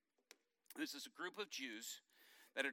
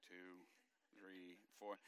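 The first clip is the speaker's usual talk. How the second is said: mock counting; 9 semitones lower, 15 dB quieter, much slower than usual. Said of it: "And I was like".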